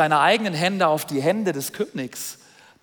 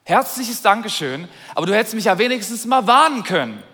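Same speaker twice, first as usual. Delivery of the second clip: complaining king; 3 semitones higher, 5 dB louder than usual. Pretend. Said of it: "Wenn ich jetzt der König wäre, würde ich sagen".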